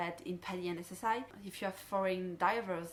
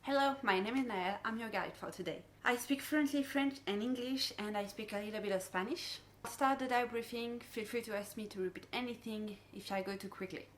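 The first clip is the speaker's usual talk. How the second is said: upbeat welcome to a dive group; dive boat safety briefing; 3 semitones higher than usual. Shown as a demonstration. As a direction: greet the divers like a friendly guide. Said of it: "here is an example of what I do".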